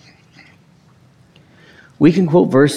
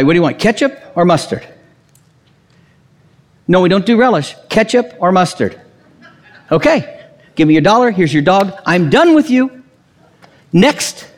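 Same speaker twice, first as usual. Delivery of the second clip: impatient hot dog vendor; 4 semitones higher than usual. Acted.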